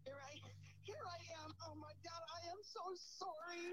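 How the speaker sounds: thin voice over a phone speaker; talking through a distant phone line; on speakerphone. Real, not acted. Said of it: "I've got you on speaker".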